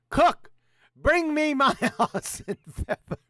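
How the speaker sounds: high, loud commanding call; bossy colonel. Acted. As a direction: order the cook around pompously.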